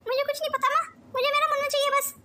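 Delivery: high, desperate plea; distraught pleading. Acted. Mother begs for her son back, losing composure. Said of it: "साक्षी संभाल अपने आप को".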